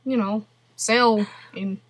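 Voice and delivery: mock Russian accent, halting. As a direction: tell a woeful tale in put-on Russian accent. Keeps up Russian character.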